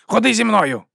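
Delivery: high, loud order; commanding. Acted. Boss ordering Lucas to come along, loud command. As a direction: order him to follow. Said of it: "звелів Бернард".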